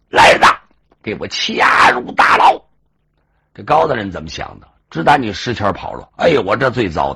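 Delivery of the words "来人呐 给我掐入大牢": loud order. Acted. Official orders arrest.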